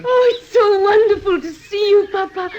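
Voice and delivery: happy words through tears; crying with relief; joyful tears. Acted. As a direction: daughter in tears greeting her papa. Daughter reunites with her father.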